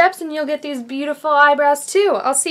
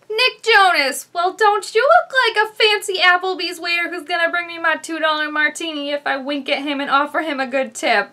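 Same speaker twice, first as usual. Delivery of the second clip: Grace Helbig. Acted. Impersonator reviews awards show looks, light YouTuber impression. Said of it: "my name's Grace Helbig".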